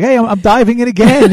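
high, excited mock kid. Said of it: "you're like".

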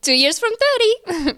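high laughing mock dismay. Real, not acted. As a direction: laugh at turning thirty. Mock dread at turning thirty.

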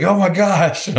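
thrilled to meet his hero; starstruck. Retold or imitated. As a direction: fan meeting his favorite musician, excited. Pilot starstruck.

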